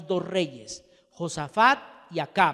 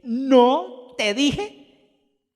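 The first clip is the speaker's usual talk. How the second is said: loud, higher, very drawn-out no te dijeee; exasperated told-you-so; 7 semitones higher, 9 dB louder, much slower than usual. Acted. King Acab telling Josafat he was right, drawn out and smug. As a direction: stretch ¿No te dije? slowly with smug vindication. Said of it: "vuelvo a leerlo".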